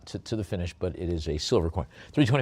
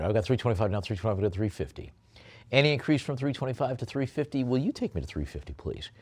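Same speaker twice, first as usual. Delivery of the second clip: auctioneer calling bids; 3 semitones higher than usual. Acted. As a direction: push for the next bid.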